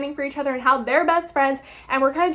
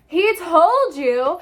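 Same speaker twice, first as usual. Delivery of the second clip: stunned disbelief; 3 semitones higher, 4 dB louder, much slower than usual. Real, not acted. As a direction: stretch each word in disbelief. Disbelief at plot twist.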